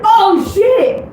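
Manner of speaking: high startled yelp; shocked realization, loud; surprised shout. Retold or imitated. Realizing the Fantasy High connection.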